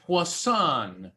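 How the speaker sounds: poisson said the French way, pwah-SOHN; French pronunciation of poisson. Shown as a demonstration. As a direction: give poisson a French accent. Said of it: "That's French for fish".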